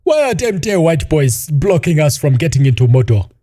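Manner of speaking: lightly hammed orc grumbling; mock orc voice. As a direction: ham up a dumb orc. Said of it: "the orc, like, first appears on screen and goes".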